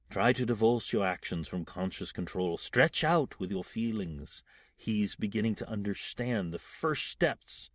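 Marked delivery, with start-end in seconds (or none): 0.1-4.4 lightly voiced calm old mentor; understated, measured teacher's voice; a hint of a remembered mentor's counsel; Obi-Wan. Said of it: "He's remembering Obi-Wan's voice".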